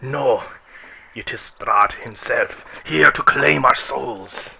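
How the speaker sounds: terrified parishioner warns the crowd, crying out slowly; fearful yell. Acted. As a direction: wail it out like doom is here. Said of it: "one parisher yells".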